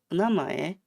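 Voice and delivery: "Onamae" with a rising, questioning end; casual question. Shown as a demonstration. Streamer showing a question without ka, "Onamae" rising. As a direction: let the tail of "Onamae" lift into a question. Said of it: "very casually without the ka".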